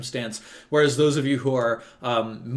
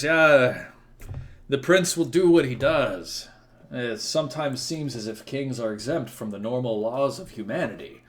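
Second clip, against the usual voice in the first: through gritted teeth. Acted. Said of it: "he sort of grits his teeth".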